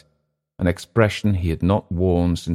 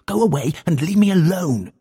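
higher, cracking cry to be left alone; hammed-up desperate yelling; frantic shout; 9 semitones higher than usual. A narrator's reading. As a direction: yell at them to leave. Clift's outburst continues.

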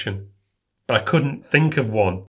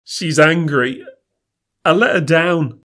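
higher, mildly tearful confession; 4 semitones higher, 3 dB louder than usual. Acted. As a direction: say it as if starting to cry. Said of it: "He starts to cry again".

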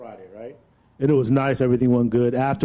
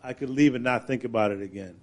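softer, mic pulled back; distant from the handheld mic; mic held farther away; 6 dB quieter than usual. Real, not acted. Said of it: "Bring the mic away from your mouth a little bit".

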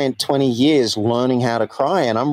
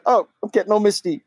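higher, quick cool-guy Fonz impression; imitating the Fonz; 7 semitones higher, faster than usual. Host imitates the Fonz naming his emotion, quick and higher. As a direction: toss it off like the Fonz admitting feelings. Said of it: "He'd say it right there".

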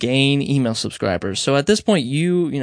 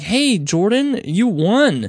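imitating excited caller; 7 semitones higher, much slower than usual.

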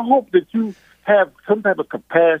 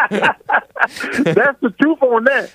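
laughing; 5 semitones higher, much slower than usual. Real, not acted. Caller laughing at host's answer.

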